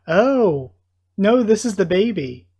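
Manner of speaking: sudden loud, high burst of realization; "Oh! No" jumps up high and loud; excited realization. Real, not acted. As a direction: it clicks, blurt it out. Excited realisation while playing.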